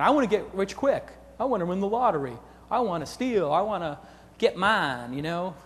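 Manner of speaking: drawled mock redneck. Speaker mocking get-rich-quick dreamers on stage, redneck voice. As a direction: put on a Southern redneck accent. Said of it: "don't know why I'm going into a redneck voice".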